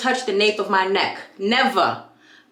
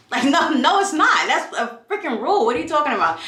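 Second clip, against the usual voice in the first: laughing disbelief; 4 semitones higher than usual. Real, not acted.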